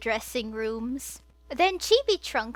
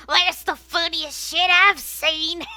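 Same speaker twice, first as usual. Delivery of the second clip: laughing; 5 semitones higher, 8 dB louder than usual. Acted. Sid laughing at Barrett.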